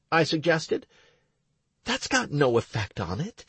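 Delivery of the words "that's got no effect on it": snapping. Acted. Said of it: "Stacy snapped, annoyed".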